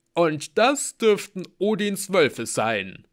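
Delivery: slow, loud, high announcement; big warrior voice. A narrator's reading. Halbgeboren identifies the howls, slowly and loudly. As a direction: declare it with relish.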